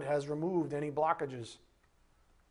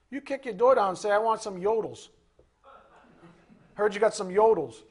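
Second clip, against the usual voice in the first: entitled thief voice; 3 semitones higher, 4 dB louder than usual. Acted. Acting out the thief.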